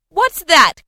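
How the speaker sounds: high, loud quick question; eager cry. A narrator's reading. Fred crying out to his sister, high and eager. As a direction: jump in eagerly. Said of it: "cried Fred".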